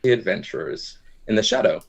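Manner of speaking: slow, dramatic storytelling voice; GM scene narration. Acted. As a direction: set the scene like an epic tale. Game master narrates scene.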